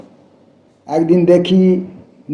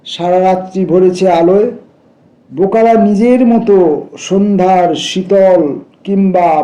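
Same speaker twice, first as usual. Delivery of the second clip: poetry recitation. Acted. Reader giving the poem of fools in full, recitation. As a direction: recite with lifted lines and falling cadences.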